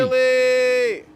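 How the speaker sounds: loud, high shout of triumph; excited shout. Real, not acted. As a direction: yell it out as the car flips up. Showing off a car wheelie.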